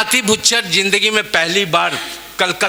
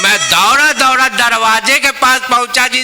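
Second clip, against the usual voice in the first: South Indian Hindi, raised and lively; Madrasi accent in Hindi; 5 semitones higher than usual. Acted. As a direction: tell it like a Madrasi babu. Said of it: "मैं दोनों का अंदाज आपके बीच पेश कर रहा हूँ".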